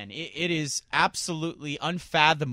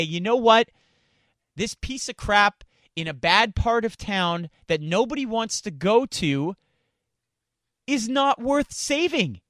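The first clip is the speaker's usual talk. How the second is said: 1 exasperated verdict; 3 semitones higher than usual. Pretend. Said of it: "you have to say".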